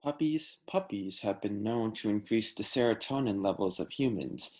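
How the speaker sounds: calm documentary narrator voice; measured Nat Geo style read; nature documentary narration. Pretend. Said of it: "a little Nat Geo about the importance of puppies".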